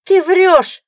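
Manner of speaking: high, loud accusing yell; furious shout. A narrator's reading. Rival losing her temper, yelling liar at the ex-wife. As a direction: lose your temper on ты. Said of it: "выходит из себя".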